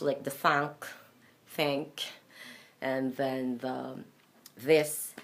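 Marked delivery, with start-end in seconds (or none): 0.3-2.0 no vocal cord buzz on the th of thank; voiceless TH. Shown as a demonstration. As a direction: thank opening on a breath-only "th". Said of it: "a voiceless T H".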